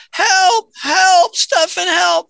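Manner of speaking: retold panicked plea; mock cry for help. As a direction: call out for help like a panicked stranded customer. Customer cries out from bathroom.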